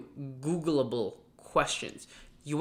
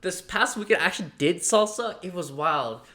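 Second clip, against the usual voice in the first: excited recruiter; 3 semitones higher, 4 dB louder than usual. Retold or imitated.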